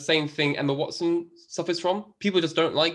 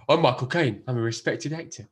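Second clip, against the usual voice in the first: Michael Caine impression; 3 semitones lower than usual. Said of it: "That's not how he sounds".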